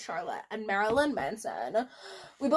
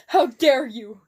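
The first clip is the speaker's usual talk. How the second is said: demanding; 7 dB louder, slower than usual. Acted. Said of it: "demanded Professor Snape".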